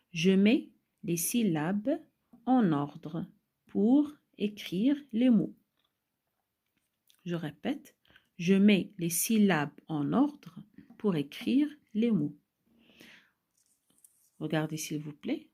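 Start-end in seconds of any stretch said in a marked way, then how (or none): 0.1-5.5 slow, loud, with a break after each phrase; slow phrase-by-phrase reading. Shown as a demonstration. Teacher reading the exercise instruction to children, slowly in chunks. 8.4-12.4 loud, clear reading in longer phrases; more connected reading. Shown as a demonstration. Teacher repeating the instruction for pupils, in connected phrases.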